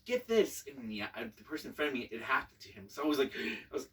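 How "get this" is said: high, loud slow bark of an order; retold scream. Staff yelling at a recruit who ran past, loud and high. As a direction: yell it like a drill instructor. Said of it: "like, scream at you".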